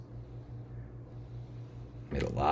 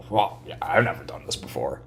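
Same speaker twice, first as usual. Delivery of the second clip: normal talking voice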